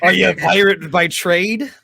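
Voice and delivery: lightly voiced pirate question; mild piratical lilt, rising at the end. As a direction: ask it with a hint of pirate. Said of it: "I'm switching into pirate voices".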